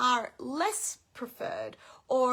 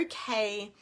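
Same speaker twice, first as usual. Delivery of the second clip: calm; 3 semitones lower, 4 dB quieter than usual. Shown as a demonstration. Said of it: "I'm in control of my body".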